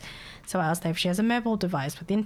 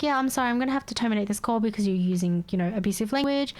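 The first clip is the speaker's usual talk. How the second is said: mock-polite, slightly raised customer-service voice; being nice; faster than usual. Call agent ending call with abusive caller, retold nice manner. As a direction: politely excuse yourself from the call. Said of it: "So first I was being nice".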